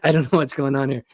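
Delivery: laughing through a raspy voice. Real, not acted. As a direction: rasp it out, half laughing. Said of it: "Marge Simpson".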